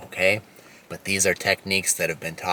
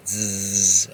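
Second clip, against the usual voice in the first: short bee buzz. Shown as a demonstration. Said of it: "it sounds like a bee".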